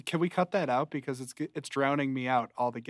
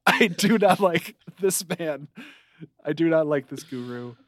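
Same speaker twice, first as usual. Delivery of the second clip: laughing mock rant; 2 semitones higher, 5 dB louder than usual.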